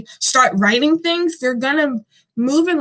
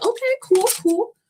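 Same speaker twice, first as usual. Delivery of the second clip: mock casual okay; 9 semitones higher than usual. Quoting her own reaction to drawing.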